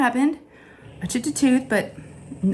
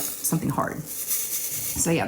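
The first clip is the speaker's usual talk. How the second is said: softer, nearly whispered; 3 semitones lower, 8 dB quieter, much slower than usual. Real, not acted. Ending the taco story, quietly. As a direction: let it fade out.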